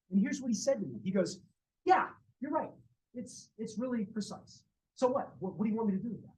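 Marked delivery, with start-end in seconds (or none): 1.9-5.3 exaggerated irritated brush-off, a bit louder; hammed-up irritated scientist. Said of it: "he didn't say it in exactly that tone". 5.4-6.3 exaggerated annoyed retort; mock-irritated scientist dismissing the question; overplayed irritation. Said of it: "he didn't say it in exactly that tone".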